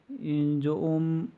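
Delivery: ओम held long as a three-beat pluta vowel; drawn-out ओम. Shown as a demonstration. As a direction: stretch ओम slowly to show the long vowel. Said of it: "इसका example ओम है". (ओम को लंबा खींचकर बोलें)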